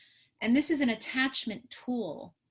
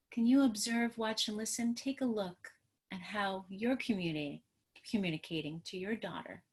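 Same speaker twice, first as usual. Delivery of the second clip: calm gentle tone; 5 dB quieter than usual. Retold or imitated. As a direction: coax the father gently. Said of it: "watched my tone of voice".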